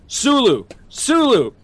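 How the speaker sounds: husband jabbing his chest at wife, hammed-up and high; insistent mock Sulu. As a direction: hammer the name like a frantic captain. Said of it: "stabbing myself in the chest going".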